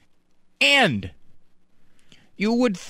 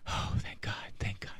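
whispered thank God; relieved whisper; 10 semitones lower, 17 dB quieter than usual. Acted. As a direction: breathe it out in relief. Relieved caller.

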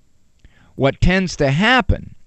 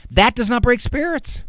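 ordinary talk

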